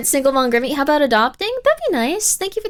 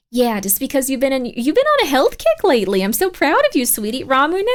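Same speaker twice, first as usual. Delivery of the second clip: soccer mom voice. Pretend. Mom offering orange slices to the kids, doting. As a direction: play a sweet fussing mother offering snacks. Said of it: "No, that's not my normal voice".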